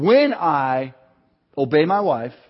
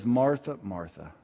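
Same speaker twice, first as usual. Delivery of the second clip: a soft, tender second Martha, much softer; gentle call; 5 semitones lower, 5 dB quieter than usual. Retold or imitated. Scene: Jesus gently calls Martha back to him, tender. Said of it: "He's gentle".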